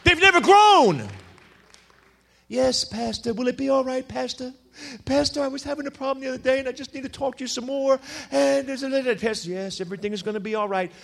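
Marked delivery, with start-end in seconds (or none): 2.5-10.9 a lightly voiced clingy church member, a bit softer; mock the needy believer pleading with pastor; whiny baby Christian. Preacher mocks a needy congregant begging pastor, mild whiny voice. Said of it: "Baby, grow up a little bit".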